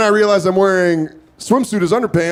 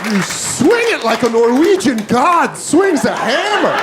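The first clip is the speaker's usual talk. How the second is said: laughing mockery; 4 semitones higher, slower than usual. Mocking the robber's strength.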